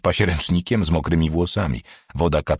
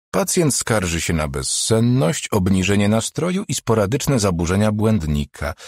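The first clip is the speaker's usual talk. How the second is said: dispassionate; 3 semitones higher than usual. Acted. Doctor reads out the patient's complaints, dispassionate. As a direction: rattle off the symptoms without feeling. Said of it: "wyliczała beznamiętnie".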